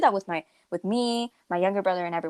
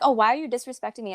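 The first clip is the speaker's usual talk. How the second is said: fast, higher mock parent complaint; mock parent whine; 4 semitones higher, faster than usual. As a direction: rattle off a parent's whiny complaint. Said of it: "parents are always just like".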